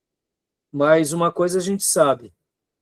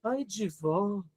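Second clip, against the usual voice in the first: softer, slow, limp "Ai de vós"; weak, timid; 12 dB quieter, much slower than usual. Shown as a demonstration. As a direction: mumble "Ai de vós" without conviction. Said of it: "eu não vejo Jesus ali". ("Ai de vós" fraco e baixinho, sem força)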